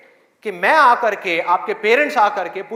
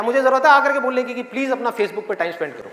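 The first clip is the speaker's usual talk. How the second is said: sarcastic; 3 semitones higher than usual. Acted. Sarcastic mock advice to waste time.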